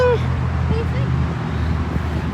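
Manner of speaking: slow, high breathy dog voice; speaking for the dog. Pretend. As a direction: answer as if the dog spoke. Voicing the dog.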